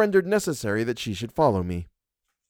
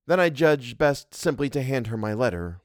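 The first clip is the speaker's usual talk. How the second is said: plain reading voice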